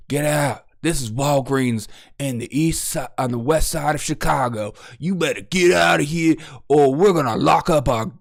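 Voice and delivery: lightly voiced racist store clerk; a hint of a hostile clerk shooing a teen. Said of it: "Everyone looks and stares at him and says".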